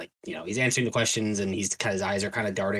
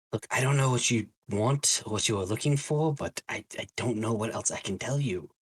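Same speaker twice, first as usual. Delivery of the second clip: uneasy, nervous, defensive, cornered pleading tone; 3 semitones higher than usual. As August, surrounded by the group and being questioned; nervous, as August. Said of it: "his eyes are just darting back and forth between the group that has now surrounded him. / I've rebuilt the church. / But he's definitely nervous and definitely not telling you everything. / You can se".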